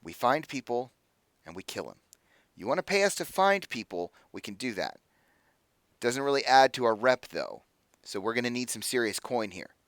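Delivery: lightly voiced negotiator, measured with pauses; mercenary leader, reluctant. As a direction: lay out terms quietly. Mercenary leader states her terms.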